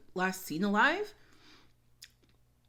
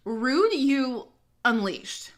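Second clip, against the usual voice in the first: mock outrage; 3 semitones higher, 5 dB louder, much slower than usual. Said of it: "I'm like".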